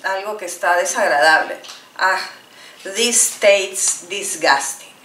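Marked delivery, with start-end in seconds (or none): 2.0-4.9 slow low grossed-out line; tasting something awful; teacher acting disgust at food. Shown as a demonstration. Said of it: "Ah, disgusting".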